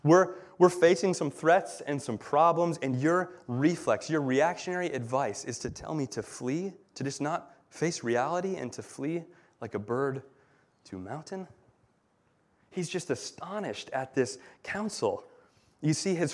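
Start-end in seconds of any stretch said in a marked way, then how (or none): 0.0-11.5 high, loud, disbelieving outburst at a friend; David protesting his friends' advice to flee; incredulous friend. Acted. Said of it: "this is my translation".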